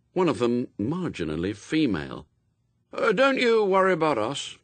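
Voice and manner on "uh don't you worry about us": put-on high, breezy boy's brush-off; carefree, pitched-up child; airy. A narrator's reading. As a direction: wave the worry away lightly. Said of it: "said Adam airily".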